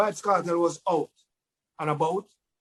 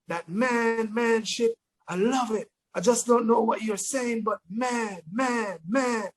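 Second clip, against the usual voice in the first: higher-pitched gushing fan voice; imitating excited fan; 5 semitones higher, slower than usual. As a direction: gush like an eager young fan. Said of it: "he was like".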